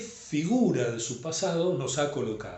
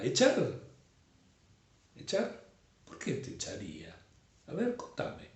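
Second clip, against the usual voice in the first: pregunta curiosa; 5 dB quieter than usual. Acted. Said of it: "y entonces pregunta".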